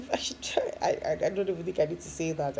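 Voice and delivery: quick whispered self-aside; a quick embarrassed whisper to herself. Real, not acted. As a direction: tuck it away under your breath, fast. Self-deprecating aside after laugh.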